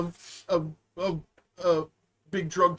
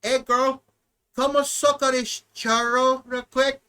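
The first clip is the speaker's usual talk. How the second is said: mock flirt; 2 semitones higher than usual. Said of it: "I say".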